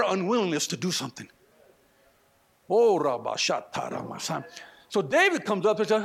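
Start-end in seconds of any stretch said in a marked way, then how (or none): 2.7-4.4 a burst of tongues, lower and rapid; speaking in tongues. Real, not acted. Preacher to congregation, a quick burst of tongues. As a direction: pray out in tongues mid-sermon.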